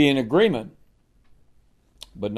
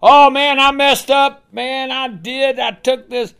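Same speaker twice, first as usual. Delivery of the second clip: sorry Achan; 11 semitones higher, 5 dB louder than usual. Acted. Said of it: "he was sorry for his sin".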